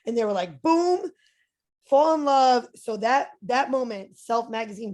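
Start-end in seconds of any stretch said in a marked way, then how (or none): 0.6-2.7 high, loud burst of delight; excited exclamation. Retold or imitated. Magazine editors won over instantly, loud and thrilled. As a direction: sell the instant love at first sight.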